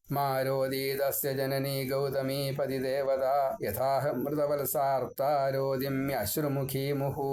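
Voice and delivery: slow, measured Sanskrit shloka recitation; verse recitation. Shown as a demonstration. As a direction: intone the whole verse slowly like scripture. (ശ്ലോകം സാവധാനം ചൊല്ലുന്നു)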